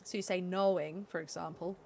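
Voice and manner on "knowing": "knowing" with an open American O; open American vowel. Shown as a demonstration. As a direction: relax the O in "knowing", American-style. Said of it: "American vowels are very open".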